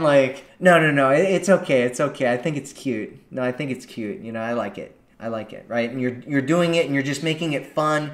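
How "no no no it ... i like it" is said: reassuring. Shown as a demonstration. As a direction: ease his embarrassment gently. Reassuring the caught guy.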